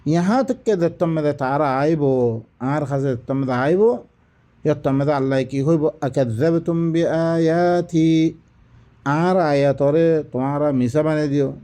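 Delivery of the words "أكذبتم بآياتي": Quran recitation. Acted. Verse fragment recited.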